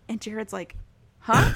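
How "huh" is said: loud, high-pitched startled huh; mock flustered surprise. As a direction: imitate someone caught out, pitch jumping up. Retold Jared caught out on vacation.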